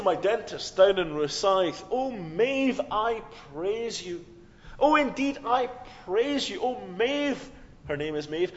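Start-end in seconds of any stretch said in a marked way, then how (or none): 1.9-7.5 gushing mock praise. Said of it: "Maeve would give me a very funny look".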